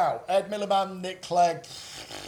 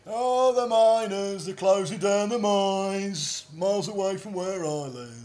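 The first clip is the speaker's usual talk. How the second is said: mock folk singer; 2 semitones higher than usual. Mocking a singer's song.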